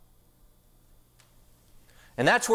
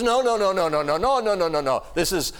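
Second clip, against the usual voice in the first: mock German protest; 4 semitones higher than usual. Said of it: "He goes".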